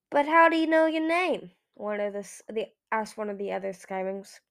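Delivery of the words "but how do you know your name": higher, louder, puzzled question. A narrator's reading. Another Skywing asks Eagle about the stranger, puzzled. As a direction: ask it in bafflement.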